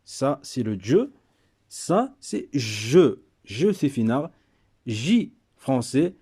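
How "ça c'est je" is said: je drawn out slowly and clearly; slow model pronunciation of je for learners; slow careful je. Shown as a demonstration. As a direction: say je very slowly, sound by sound. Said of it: "c'est pas comme je, c'est pas pareil".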